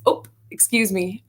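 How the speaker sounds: put-on light upper Midwest "Oh, excuse me" in a mild Dakota accent; polite bump-into-someone Oh, lightly imitated; North Dakota politeness. Guest imitates locals bumping into someone, mild Dakota accent. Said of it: "it's always".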